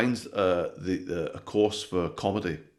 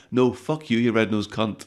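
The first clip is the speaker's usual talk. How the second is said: louder, higher defiant snap; man finally fights back at the clown, furious; angry retort; 6 semitones higher, 10 dB louder than usual. Acted.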